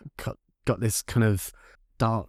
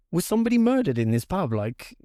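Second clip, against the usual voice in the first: panicked; 5 semitones higher than usual. Retold or imitated. Running to the bar, panicked.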